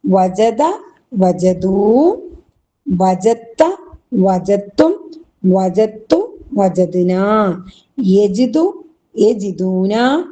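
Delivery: sing-song paradigm chant, each form set apart; measured rote chanting; drill recitation. Shown as a demonstration. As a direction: recite the conjugation for the class to repeat. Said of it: "ഒന്നുകൂടെ എല്ലാവരും ഒന്ന് ഒരുമിച്ച് പറഞ്ഞേ".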